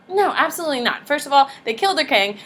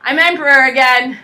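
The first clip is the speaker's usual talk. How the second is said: louder, stressing emperor; proud proclamation; 7 dB louder than usual. Retold or imitated. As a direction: declare it to the crowd like a victor. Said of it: "and says".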